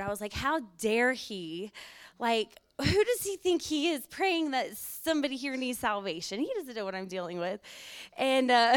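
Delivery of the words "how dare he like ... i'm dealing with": mild indignation. Retold or imitated. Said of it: "I got so mad in my spirit".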